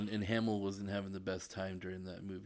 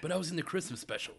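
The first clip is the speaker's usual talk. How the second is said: whiny pleading actor; 7 semitones higher, faster than usual. Retold or imitated. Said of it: "voicing the actor pleading".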